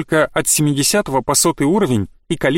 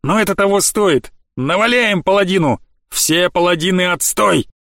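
rallying cheer; 3 semitones higher than usual. Acted. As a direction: rouse the crowd. Hero joins rallying cheer.

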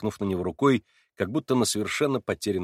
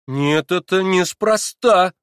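slow, higher and louder; exclaiming; 8 semitones higher, 10 dB louder, much slower than usual. A narrator's reading. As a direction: cry out, suspicious and sharp. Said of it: "вскричала Катя". (вскрикнув, медленно и громко)

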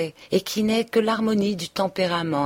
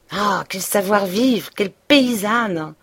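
Emma's outraged cry, a touch louder; indignant stamping; 3 semitones higher, 3 dB louder than usual. Acted. Emma furious at her mother-in-law, outraged cry. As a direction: spit out the insult, stamping. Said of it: "Emma trépignait en répétant".

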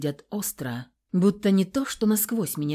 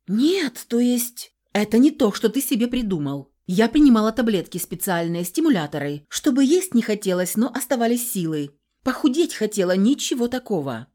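higher, louder, rushed excuses; frantic explaining; 4 semitones higher, 5 dB louder than usual. A narrator's reading. Heroine justifying the pills to Nikolai, frantic and loud. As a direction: talk fast to make him believe you.

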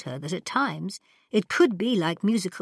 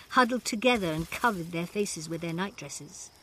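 ordinary delivery

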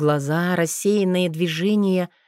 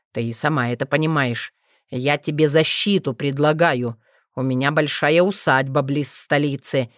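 lower, gentle coaxing man's voice; tender persuasion; 3 semitones lower than usual. Acted. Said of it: "уговаривать с нежностью и теплотой".

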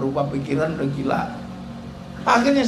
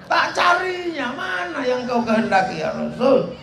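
fierce shouting; 5 semitones higher than usual. Retold or imitated. Umar offering to find a wife.

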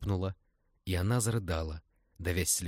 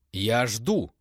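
louder, demanding; raised voice; 4 semitones higher, 8 dB louder than usual. Acted. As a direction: she raises her voice at the men. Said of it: "повысила голос Новицкая". (Лиза требует ответа, повышая голос)

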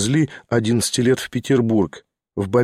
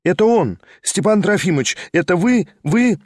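put-on higher, bright young girl calling out; a young rider's happy, raised call; fresh young voice; 5 semitones higher than usual. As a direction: call out joyfully as a lively young woman. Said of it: "свежий, резвый юный голос".

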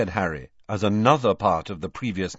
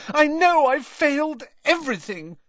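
despairing; 5 dB louder than usual. Acted. Hermione voiced in audiobook.

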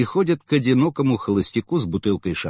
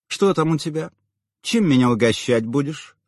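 purring; 5 semitones higher than usual. A narrator's reading. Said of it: "замурлыкала она".

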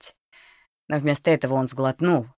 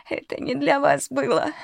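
much higher, tearful crone; sobbing old woman; 12 semitones higher than usual. Acted. Old cook pleads with the armed boy, sobbing. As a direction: whimper it like a frightened old woman. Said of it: "всхлипнула старуха".

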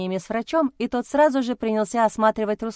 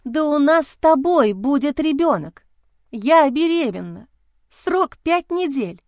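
slow, louder, higher, each word stressed; slowly, word by word; 6 semitones higher, 5 dB louder, slower than usual. A narrator's reading. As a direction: spell it out so he finally hears. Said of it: "произнесла я медленно, выделяя каждое слово". (медленно, выделяя каждое слово)

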